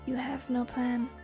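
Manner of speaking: slow, clipped and precise; crisp measured syllables. Acted. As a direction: spell each syllable out coldly. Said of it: "speaking in crisp, measured syllables".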